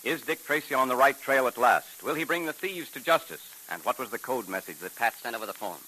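put-on upbeat old-time radio announcer. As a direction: sell the cliffhanger and cereal. Program announcer.

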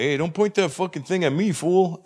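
overheard tough guy objecting; voice from hallway. Acted. Friend in the hallway to armed guards, indignant. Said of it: "Mister T's come to the rescue".

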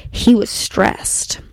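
slow, hushed whisper. Retold or imitated. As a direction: breathe it out slowly and secretly. Dramatic close of the quote.

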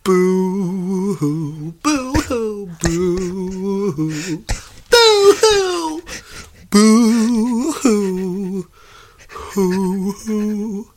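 high, hammed-up boo-hoo wailing; mock sobbing to tease a friend; fake crying. Mocks friend's threat to cry.

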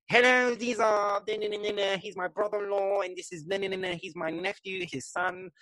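a hint of a game show host presenting guests; showbiz host. The taxidermist introducing his in-laws like a showman. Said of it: "in the most sort of show business sort of way".

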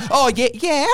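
high vocal-fry valley drawl; lightly voiced Kim K; Kim Kardashian impression. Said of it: "I just automatically go to Kim Kardashian".

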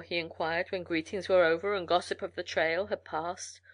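ordinary delivery

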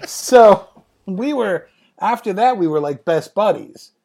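laughing high and loud through the words; laughter-filled recollection. Real, not acted. Laughing after the story.

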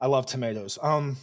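chewing while talking; mouth full. Real, not acted. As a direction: talk through a mouthful. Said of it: "I can't talk with it in my mouth".

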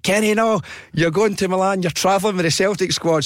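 high, gushing DJ reveal; excited prize announcement. Retold or imitated. Presenter telling Kenny about Celtic trip, excited. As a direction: pile on the prize like a radio host.

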